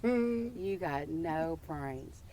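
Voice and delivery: teasing quote. Retold or imitated. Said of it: "hold it up to my ear and go".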